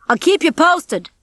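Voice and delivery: high, drawn-out call; calling back. A narrator's reading. Rocky walking away from the rats, calling back. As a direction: call it back while leaving. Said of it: "Rocky called back to him".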